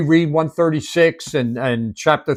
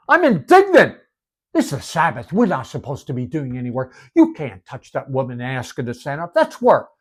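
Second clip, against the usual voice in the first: indignant synagogue leader. Retold or imitated. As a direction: play the huffy synagogue leader scolding. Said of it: "he was indignant".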